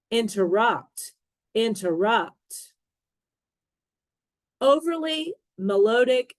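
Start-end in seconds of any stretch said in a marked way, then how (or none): 0.1-2.7 interRUPT, stress on the last syllable; careful model reading of "Interrupt", landing on RUPT; "interrupt" repeated alike, final syllable stressed; word stress demo. Shown as a demonstration. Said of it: "stress on the right syllable".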